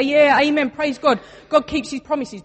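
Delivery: loud, high, hammed-up hallelujah; mock a churchgoer's easy enthusiastic amen; glib praise. Pastor imitates believers who praise God but doubt, hammed-up loud.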